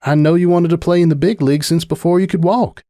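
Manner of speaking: lightly voiced farm mare, gentle; a hint of a caring friend; country mare, encouraging. Farm mare encouraging her coltfriend not to quit.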